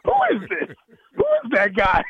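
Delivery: calling out the player on tape; coach yelling at film. Retold or imitated. Coach to team in film room, mock yelling. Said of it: "he kept going".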